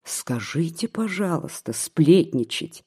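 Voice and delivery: mild irritation, сплетничать drawn out slowly; a hint of indignant echo; irritated. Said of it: "воскликнула ... с раздражением". (с лёгким раздражением, растягивая «сплетничать»)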